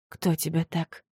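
hushed breathy whisper. A narrator's reading. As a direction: ask it in a frightened whisper. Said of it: "шепчу я".

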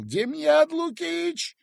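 very high, drawn-out loud call; yelling a name. A narrator's reading. Doctor yells for the feldsher, loud drawn call. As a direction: call him from across the hospital. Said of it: "заговорил я и завопил".

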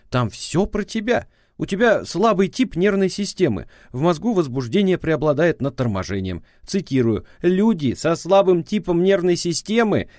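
prosecutor's voice. A narrator's reading. Ex-wife on the phone scolding him, prosecutorial tone.

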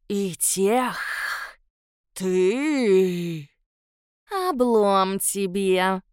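low, slow snarling monster voice; spiteful creature. Acted. Stubby-tailed shadow taunting the former chief, low and spiteful. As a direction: hurl it like a grudge from below. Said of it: "Злобно прищурился".

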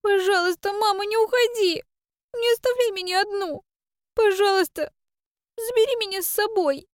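put-on high girl's voice, begging in tears; a little girl clinging, desperate; pleading child. A narrator's reading. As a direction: daughter begs her mother not to leave. Girl begs mother in tears.

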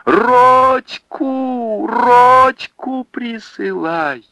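high, loud, drawn-out call; slow long shout after a departing man; desperate cry. Acted. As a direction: cry across the river in despair. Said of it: "тот же самый крик".

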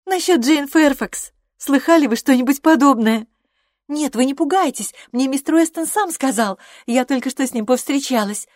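put-on a chatty young woman spilling a secret; young Harriet, gossiping. A narrator's reading. Harriet voiced through the scene. (восторженная юная болтушка)

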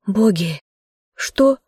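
sharp startled gasp of words, rising high; frightened surprise. Acted. Fallen girl cries out in fright at the bear. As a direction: jolt in shock at the moving bear. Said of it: "испуганно раскрыла рот".

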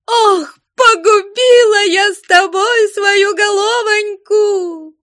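high, loud, slow crying wail; keen out the words through sobs; wailing lament. Acted. Betrayed woman wailing at her lover, sobbing. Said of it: "завопила в источный голос".

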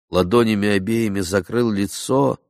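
ordinary delivery, nothing marked

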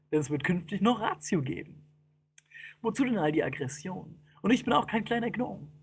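mild, reasoning tone; understated fearless composure; matter-of-fact, calm. Acted. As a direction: reason calmly as a man of science. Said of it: "sachlich und ruhig".

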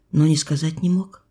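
ordinary delivery, nothing marked

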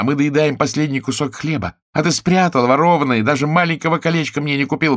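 high, loud furious tirade; Chiara yelling. A narrator's reading. Chiara screams abuse at Giuseppe, high and furious. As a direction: berate him at the top of your voice. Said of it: "кричала она".

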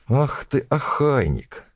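put-on high scolding old woman; shrill old crone scolding; shrill nagging grandma.

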